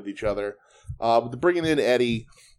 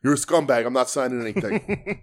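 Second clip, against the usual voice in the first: slightly raised, mock-indignant telling-off; mock refusal; 3 semitones higher than usual. Wrestler refusing to sign for a fan, mock refusal. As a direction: imitate a wrestler refusing, amusement creeping in.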